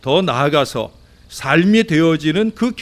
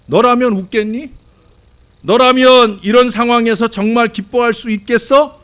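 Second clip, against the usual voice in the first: skeptical listener; 8 semitones higher, 6 dB louder than usual. Retold or imitated. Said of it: "그런 반응을 여러분들이 보일 수".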